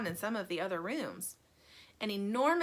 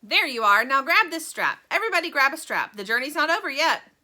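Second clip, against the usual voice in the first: commanding; 5 semitones higher, 9 dB louder than usual. A narrator's reading. Wonka instructing on the lurching elevator.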